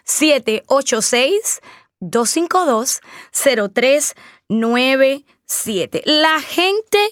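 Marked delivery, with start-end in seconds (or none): 0.0-6.0 number said slowly, digit by digit; slow phone number. Shown as a demonstration. Host repeating her phone number for listeners, slowly. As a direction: spell out each digit so they can dial. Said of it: "es el número a marcar".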